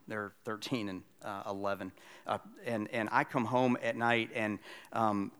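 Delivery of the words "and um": ordinary talk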